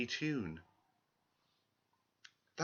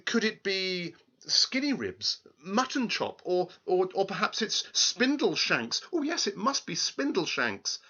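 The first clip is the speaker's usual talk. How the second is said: queen crying out eagerly; 6 semitones higher than usual. Acted. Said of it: "the queen cried".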